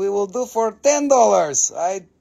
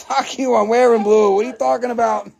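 mock-angry, louder and higher comeback; mad Gumby; 3 semitones higher, 5 dB louder than usual. Seller voices Gumby defending his blue suit, mock mad. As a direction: playfully snap back as an offended Gumby. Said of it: "Gumby's gonna be fucking mad".

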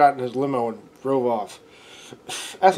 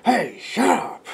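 mock yell; 9 semitones higher, slower than usual. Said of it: "he told people in the back".

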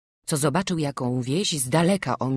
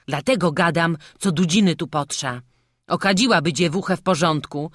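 higher, louder peasant voices; worried gossip about the bride; villagers talking of the witch; 4 semitones higher, 5 dB louder than usual. Acted. Guests discuss the witch.

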